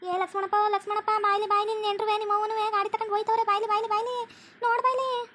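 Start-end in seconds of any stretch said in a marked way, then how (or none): 3.4-5.3 calling out. Acted. Calling Lakshmanappa to look.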